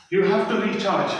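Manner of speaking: you have to recharge drawn out very slowly word by word; slow emphasis. Shown as a demonstration.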